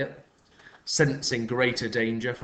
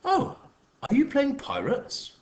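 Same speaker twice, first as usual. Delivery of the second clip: mock sweetness; slower than usual. A narrator's reading. Patricia mocking the boy.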